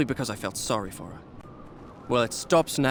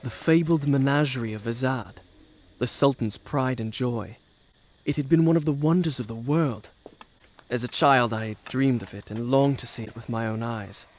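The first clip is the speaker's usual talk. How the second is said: story narration; 3 dB louder than usual. A narrator's reading. Prince narrates his tale.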